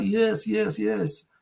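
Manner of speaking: put-on high, hammy German accent on a teammate's eager yes; terrible German impression. German player replying to the host, in a bad German accent. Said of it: "terrible German impression".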